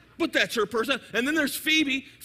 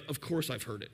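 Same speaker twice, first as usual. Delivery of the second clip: voice of God; 9 semitones lower, 8 dB quieter than usual. Pretend. Voicing the Holy Spirit's reply.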